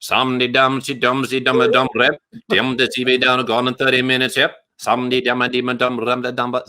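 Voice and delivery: half-joking Caribbean accent that drifts into a reggae singer's style of mumbling. Shown as a demonstration. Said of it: "sounding like Shaggy".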